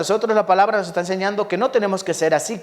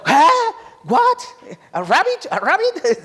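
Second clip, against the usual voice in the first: high, incredulous mock Englishman; much higher, squeaky disbelief in English; shocked English listener; 13 semitones higher, much slower than usual. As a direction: play a stunned Brit hearing about rabbit stew. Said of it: "cuando dices que, que comen conejo".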